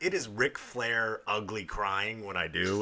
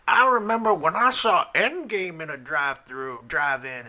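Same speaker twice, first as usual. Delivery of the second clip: lightly voiced grandpa; 5 semitones higher, 6 dB louder than usual. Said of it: "the angry grandpa".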